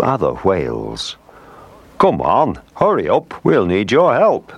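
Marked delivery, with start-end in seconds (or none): 2.0-4.5 high, urgent call for help; mild acted shout. A narrator's reading. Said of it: "they shouted".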